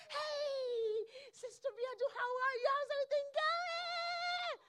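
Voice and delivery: high, bright-sung hurried hello without stopping; breezy passing greeting. Retold or imitated. Preacher mocking a careless churchgoer's passing hello. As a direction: toss off a cheery greeting while walking past.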